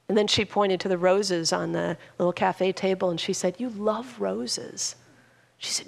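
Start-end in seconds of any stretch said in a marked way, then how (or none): 3.6-4.9 soft, slow, tender reminder; softer and slower. Retold or imitated. Daughter pointing to roses for her mother, soft and slow. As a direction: gently remind her, unhurried. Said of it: "her voice got lower and softer".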